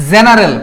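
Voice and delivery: "জেনারেল" con G dolce, come j. Shown as a demonstration. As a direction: pronuncia "জেনারেল" con il suono জি iniziale. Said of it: "জি উচ্চারণ হচ্ছে".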